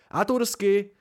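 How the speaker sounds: a bright amused cry; amused shout. A narrator's reading. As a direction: call it out with amusement. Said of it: "křikl Simon a v hlase mu zaznívalo pobavení".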